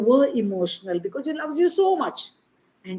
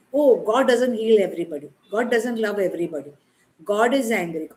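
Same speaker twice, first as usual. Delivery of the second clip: mock quote; 4 dB louder than usual. Mocking the Western view.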